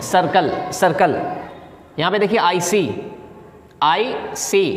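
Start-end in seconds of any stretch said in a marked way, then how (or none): 0.0-1.2 सर्कल said slowly, with a clear s sound; slow model word. Shown as a demonstration. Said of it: "सीन पढ़ेंगे, काफ नहीं पढ़ेंगे". (सर्कल को धीरे से, सीन की आवाज़ में बोलिए)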